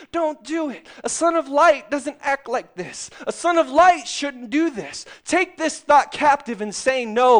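high, loud urgent warning; inner conscience voice. Retold or imitated. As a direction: plead like the voice of conscience.

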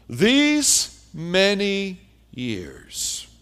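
very slow, each word stretched out in grievance; resentful drawn-out complaint. Retold or imitated. Older son airing his grudge at his father, slow and bitter. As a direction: drag the words out like a sulking son. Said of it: "he said".

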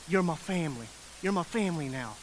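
gentle acceptance. Retold or imitated. Jesus accepting the woman as family, gentle. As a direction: voice Jesus tenderly claiming her. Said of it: "almost as if to acknowledge".

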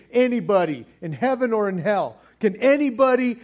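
booming call to all creation; angel's loud challenge. Retold or imitated. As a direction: proclaim it out loud like a herald. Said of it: "He is saying".

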